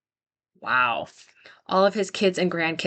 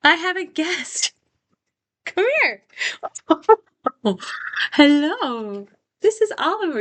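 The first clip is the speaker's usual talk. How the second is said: cooing over puppy; 10 semitones higher than usual. Real, not acted. Host introduces her puppy.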